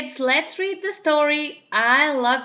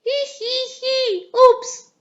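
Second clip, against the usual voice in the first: giggling; 12 semitones higher, 6 dB louder, slower than usual. Acted. Peppa giggling in kitchen.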